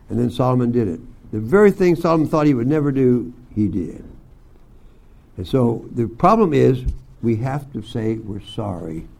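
ordinary talk, nothing marked

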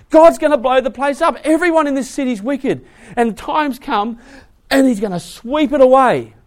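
high, loud acted alarm; stressed. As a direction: warn them frantically. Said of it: "he's stressed and he says".

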